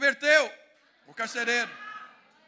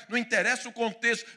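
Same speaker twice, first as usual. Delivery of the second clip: ordinary talk, nothing marked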